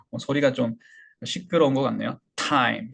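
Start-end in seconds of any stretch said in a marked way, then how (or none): 2.3-2.9 "타임" as English time, aspirated burst t; "타임" in one English syllable with springy t; popped English t. Shown as a demonstration. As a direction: flick the t in "타임". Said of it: "이렇게 튕기는 소리를".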